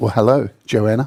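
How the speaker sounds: solemn, weighty, serious low-voiced tone. Redoing the greeting to a viewer: more serious tone. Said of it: "let me do it a bit more serious".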